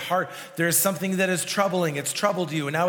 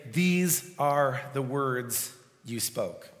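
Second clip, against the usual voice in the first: drawn out slowly and reverently; slow, hushed scripture line; slow solemn quote; 4 semitones lower, 4 dB quieter, slower than usual. Shown as a demonstration. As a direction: let each word land slowly. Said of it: "we can look at this and say".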